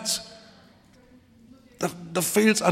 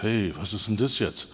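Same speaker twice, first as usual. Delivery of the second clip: startled listener; 7 semitones lower, 6 dB quieter than usual. Retold or imitated. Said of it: "Du sagst".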